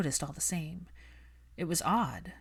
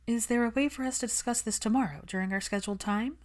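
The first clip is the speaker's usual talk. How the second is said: put-on lightly raised, brisk young woman; Hermione's voice; 6 semitones higher than usual. Hermione brushing off Malfoy, cool and defensive. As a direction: keep her cool and a little defensive.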